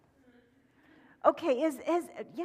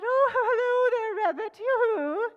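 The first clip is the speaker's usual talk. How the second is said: much higher, louder yoo-hoo; hen greeting; 11 semitones higher, 6 dB louder than usual. Acted. Hen calling to Rabbit, high and loud. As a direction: sing out a cheery call. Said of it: "She said".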